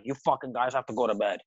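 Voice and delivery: quick mock-drunk order; imitated slurring drunk. Drunk host sending the band to bed, mildly imitated. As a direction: lightly mimic a drunk host, rushed. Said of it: "slurring his words even more".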